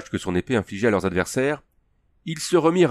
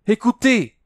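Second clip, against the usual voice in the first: even higher, louder call; louder cry; 14 semitones higher, 5 dB louder, slower than usual. A narrator's reading. Princess repeating her cry, higher and louder. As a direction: call her out again more urgently. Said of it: "cria-t-elle".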